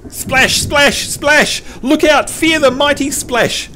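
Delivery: high-pitched mock-epic Magikarp hype; mock battle cry. Host hyping Magikarp's useless Splash to chat, mock battle cry. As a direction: play up a feeble attack as mighty.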